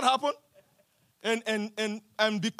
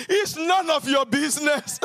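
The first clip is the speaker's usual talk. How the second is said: loud retort; 4 semitones higher, 5 dB louder than usual. Acted. Preacher shouts Jesus's retort.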